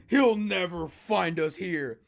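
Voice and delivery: slow, drawn-out villain quote; imitating Roz. Reactor retelling a villain's boast, slow mimicry. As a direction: take it slowly, lightly voiced villain. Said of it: "Roz was like".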